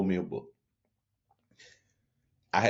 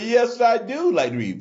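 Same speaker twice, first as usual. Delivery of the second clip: proud loud answer; 12 semitones higher, 5 dB louder than usual. Retold or imitated.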